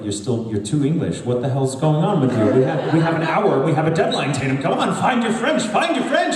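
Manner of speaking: imitating the director pushing her at the deadline; exasperated director. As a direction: hurry her up, voice rising to a mock yell. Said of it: "Scott Sager was like".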